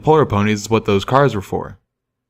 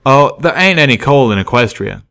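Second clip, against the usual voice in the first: folksy train pony; 4 semitones higher, 4 dB louder than usual. Acted. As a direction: explain like a simple hick worker.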